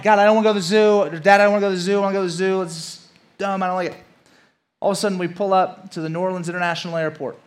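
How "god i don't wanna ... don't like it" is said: put-on high, fast kid's whine; a kid begging his parents, loud fast whining. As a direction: whine the words like a sulky child. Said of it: "I'm just whining the whole time".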